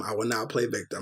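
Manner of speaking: a quiet promise to himself; quiet mantra. Shown as a demonstration. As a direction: repeat it under your breath like a vow. Repeats a self-reminder three times.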